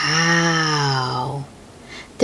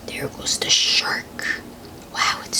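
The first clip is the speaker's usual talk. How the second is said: soft, awed whisper; hushed whisper; 6 dB quieter than usual. Real, not acted. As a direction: breathe it out in quiet wonder. Hushed awe at shark picture.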